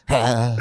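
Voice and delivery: spent little gasp; mock exhausted exhale. Imitating held-down kids gassing out, tired exhale. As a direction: give out like a worn-out kid.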